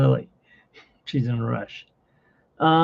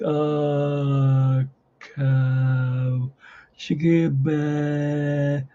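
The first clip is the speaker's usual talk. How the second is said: mangled spelling; much slower than usual. Retold or imitated. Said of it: "I'll be like".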